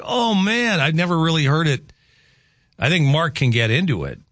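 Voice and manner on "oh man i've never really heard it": high, delighted wonder; impressed. Retold or imitated. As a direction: marvel at something new. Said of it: "I'm like".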